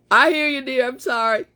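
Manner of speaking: mock call of apology to a partner; calling to spouse. Answering spouse's knock about the noise, calling out. Calls back to spouse after loud complaint.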